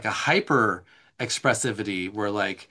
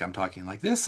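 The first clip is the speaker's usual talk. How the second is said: softer, ordinary low talking voice; low-key prosody demo; 3 semitones lower, 5 dB quieter than usual. Shown as a demonstration. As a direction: show a subdued, lower way of talking. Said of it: "so prosody is like".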